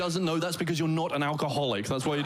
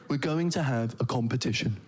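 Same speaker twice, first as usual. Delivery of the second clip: deadpan lower voice; bored; 4 semitones lower than usual. Retold or imitated. Comedian mocking dull English, in a bored low deadpan. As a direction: sound joyless about the competition. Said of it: "That doesn't sound like fun".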